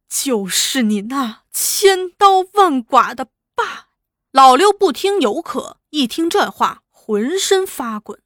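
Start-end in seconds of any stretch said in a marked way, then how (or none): 0.1-3.9 through gritted teeth. Acted. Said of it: "咬牙切齿地哭道".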